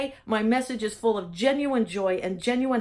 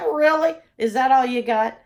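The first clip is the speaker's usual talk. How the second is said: louder mocking challenge to her fears; taunting fear; 2 semitones higher, 7 dB louder than usual. Answering her fearful thoughts with a louder taunt. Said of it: "you know what I say now".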